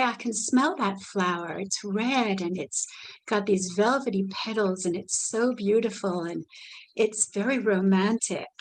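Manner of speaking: lightly voiced gentle description of the flower; descriptive demo. Shown as a demonstration. Caregiver guiding a resident's imagination, lightly voiced gentle description. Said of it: "Or you could say".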